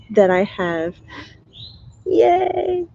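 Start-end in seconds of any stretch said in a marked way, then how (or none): 2.0-2.9 excited cheer. Real, not acted. Cheering, much higher pitch.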